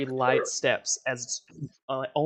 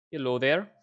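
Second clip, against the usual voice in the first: put-on Eastern European accent. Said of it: "in a very thick Eastern European accent".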